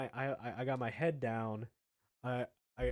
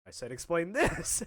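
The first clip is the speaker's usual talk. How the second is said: louder, higher insistent demand; exasperated dean; 4 semitones higher, 5 dB louder than usual. Retold or imitated. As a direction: press the point as a fed-up dean. Dean repeats his demand.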